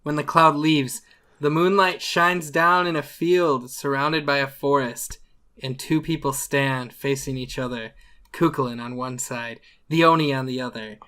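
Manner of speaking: measured storyteller's scene-setting; game master narration. Acted. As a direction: set the scene for a showdown.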